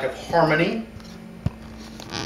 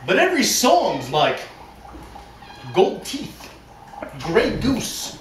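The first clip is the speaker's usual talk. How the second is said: mock dramatic reading; 3 semitones higher than usual. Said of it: "we have a dramatic reading".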